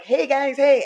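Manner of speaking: imitating her own fake airhead self; a light bubbly fake cheer; mock ditzy greeting. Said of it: "trying my best to play, um, dumb".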